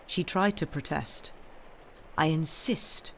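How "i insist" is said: affectionate fatherly insistence; paternal affection. A narrator's reading. Father insisting to his daughter, paternal affection. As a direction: insist tenderly, like a loving father. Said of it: "a voice so full of paternal affection".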